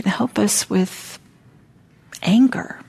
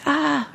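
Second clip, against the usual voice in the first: a high, breathy little ah; hint at the scream without voicing it; mock scream, barely voiced; 9 semitones higher than usual. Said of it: "I screamed".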